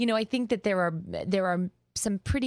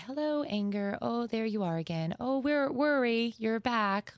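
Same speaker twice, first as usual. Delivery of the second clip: gentle greeting; 4 semitones higher than usual. Shown as a demonstration. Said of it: "greeting the feelings like a visitor".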